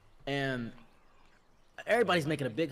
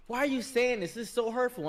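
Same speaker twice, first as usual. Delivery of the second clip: high, wounded audience-member voice; offended complainer; 7 semitones higher than usual. Retold or imitated. Offended man questioning the panel host, wounded complaint. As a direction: imitate a hurt objector in raised pitch.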